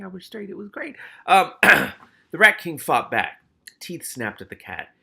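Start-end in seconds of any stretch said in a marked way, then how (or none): 1.6-3.4 dramatic announce. A narrator's reading. Dramatic narration surge.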